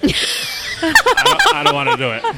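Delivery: breaking into laughter mid-sentence; real giggling while retelling; laughing. Real, not acted. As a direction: laugh through the words.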